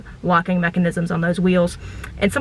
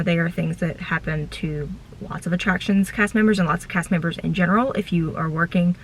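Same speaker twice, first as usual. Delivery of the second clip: chewing gum. Real, not acted. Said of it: "Sorry, I have gum in my mouth".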